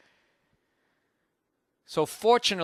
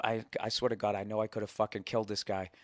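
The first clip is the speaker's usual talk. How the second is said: much softer, dropped low; hushed confession; 6 semitones lower, 8 dB quieter than usual. Real, not acted. Comic confiding to the crowd, hushed and low. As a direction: lean in and confess it under your breath. Confiding he could have killed him.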